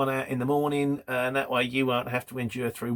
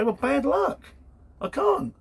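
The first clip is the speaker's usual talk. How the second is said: mock defiant refusal; 11 semitones higher, slower than usual. Advising a defiant reply to shippers.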